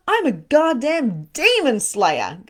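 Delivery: slow, loud, high boast; self-hyping battle cry; proud declaration. Shown as a demonstration. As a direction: proclaim it slowly, punching each word. Hyping herself up as slayer.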